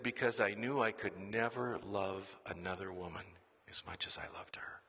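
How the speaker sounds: soft, fading to a whisper; a dying grandfather's hushed confession; weak raspy whisper. Retold or imitated. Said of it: "in his raspy voice".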